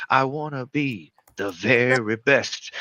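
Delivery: spoken theme song. Retold or imitated. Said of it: "He's like".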